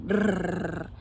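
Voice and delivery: rolled brrr shudder noise; mock shudder. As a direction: imitate a shudder rippling out. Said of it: "like a shudder being sent out".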